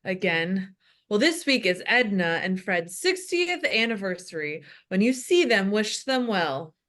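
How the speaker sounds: lightly voiced old pastor, breathing heavily; older heavy-breathing man. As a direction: read announcements like an old winded pastor. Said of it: "The voice of an older, heavy-breathing man".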